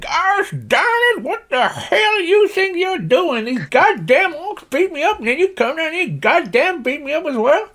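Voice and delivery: high-pitched indignant holler, stretched out; irate Slim Pickens. Acted. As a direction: rant like an outraged cowboy old-timer. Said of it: "If you imagine Slim Pickens".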